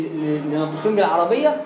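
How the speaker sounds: ordinary delivery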